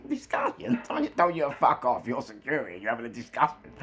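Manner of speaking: high-pitched incredulous telling-off; mocking disbelief. Incredulous reply to the two guards.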